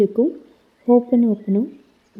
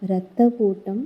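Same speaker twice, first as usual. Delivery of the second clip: guided meditation. Acted. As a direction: gently guide the listener through the body, slowing on each thank-you. Leads a guided healing meditation. (மெதுவான, மென்மையான தியான வழிகாட்டும் குரல்)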